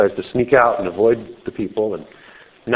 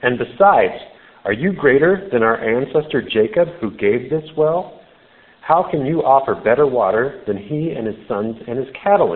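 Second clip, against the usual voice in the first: attitude; 3 semitones higher than usual. Acted. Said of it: "she's really got an attitude about this".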